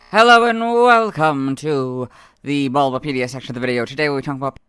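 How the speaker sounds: loud, bright presenter intro; announcer voice. Acted. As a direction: welcome viewers like a show host. Announcer intro of wiki section.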